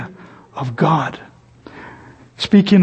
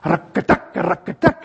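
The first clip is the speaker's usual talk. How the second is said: 1 rocking creak; 4 dB quieter than usual. Retold or imitated. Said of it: "started to make a loud noise".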